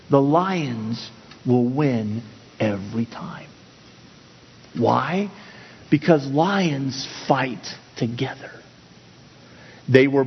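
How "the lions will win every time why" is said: slow hushed whisper for emphasis; dramatic whisper. Real, not acted. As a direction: drop to a slow, secret whisper. Dramatic climax of lion illustration.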